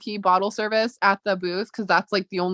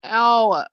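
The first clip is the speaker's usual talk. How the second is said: wincing ow from a sore throat; sharp ow of throat pain; 4 dB louder than usual. Real, not acted. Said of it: "This is getting ridiculous".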